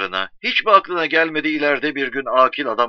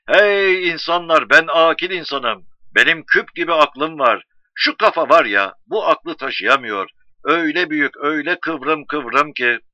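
loud, raised, stretched-out boastful address; proclaiming to the people; 3 semitones higher, 5 dB louder than usual. Acted. Self-declared wise man addressing all humanity, grandly proclaiming. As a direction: call out grandly to a crowd. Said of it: "bunu insanlara söylersin".

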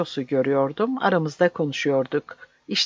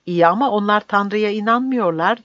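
higher, raised protesting cry; 6 semitones higher, 4 dB louder than usual. A narrator's reading. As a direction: exclaim it in alarm, higher. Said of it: "diye haykırdı Peder Yanaros".

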